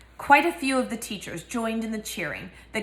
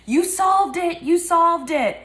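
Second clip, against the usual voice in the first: much higher and louder, a joyful shriek; excited scream; 9 semitones higher, 6 dB louder, slower than usual. Acted. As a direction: scream it as you run to him in triumph. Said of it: "Hermione running toward him, screaming".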